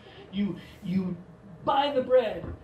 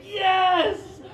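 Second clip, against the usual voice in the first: high, loud cry of yes; exultant cheer; delighted yes; 11 semitones higher, 5 dB louder than usual. Retold or imitated. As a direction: celebrate with a drawn-out, high yes. Acting out delight at endless plates.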